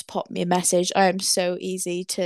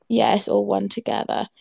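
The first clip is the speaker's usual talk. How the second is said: a touch of Welsh accent. Shown as a demonstration. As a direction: let the Welsh accent slip in on one. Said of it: "that's my Welsh accent coming through".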